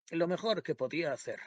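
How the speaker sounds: "mejor" leaned on in a mild, deliberate mother's voice; stressing her words. A narrator's reading. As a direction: lay weight on "Lo mejor que podía hacer". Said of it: "recalcando sus palabras".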